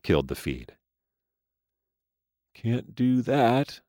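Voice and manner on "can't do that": turning the words over, amused; musing. A narrator's reading. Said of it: "she mused".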